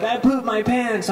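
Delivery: high, lightly tearful confession; mock crying. Rich confessing to his friend in the car, mock crying. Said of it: "like, crying".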